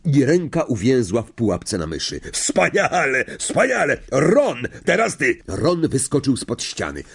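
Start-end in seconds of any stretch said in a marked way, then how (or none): 2.3-5.4 high, encouraging teacher's exclamations; bright-pitched cheering call; excited praise. A narrator's reading. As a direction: praise and urge the next pupil on.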